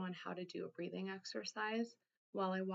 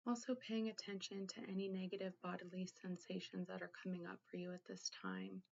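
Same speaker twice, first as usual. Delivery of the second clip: guided meditation. Acted. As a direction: gently guide the listener inward, leaving room to think. Leads a guided containment exercise.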